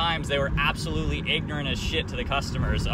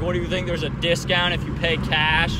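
lightly imitated scornful question; retold mockery; 3 semitones higher, 4 dB louder than usual. Old clerk mocking the customer about a cash discount, scornful. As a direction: ask it as if talking to someone stupid. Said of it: "pretending I'm stupid".

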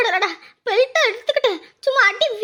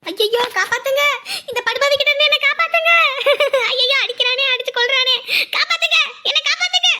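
crying for help; 2 semitones higher than usual. Acted. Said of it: "இப்படி கத்திட்டு இருக்கு".

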